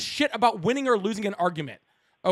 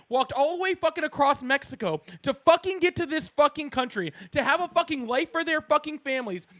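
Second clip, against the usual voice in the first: higher-pitched heated tirade; angry rant; 5 semitones higher than usual. Real, not acted. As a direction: lay into him, voice up and driving. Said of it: "you're getting mad".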